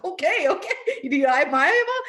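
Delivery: high, loud, laughing through the words. Real, not acted. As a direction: crack up while asking. Mother laughing at son's answer.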